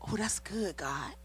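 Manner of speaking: breathy whisper to God; whispered aside. Retold or imitated. Wife whispering thanks to God, hushed. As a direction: whisper it in awe. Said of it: "I was like".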